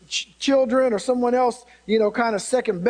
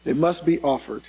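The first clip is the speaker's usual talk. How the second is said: low, deliberate stress on "must be offered"; emphasis on must and offered; 5 semitones lower than usual. Real, not acted. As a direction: lower voice, weight on "must" and "offered". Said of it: "putting the emphasis on must".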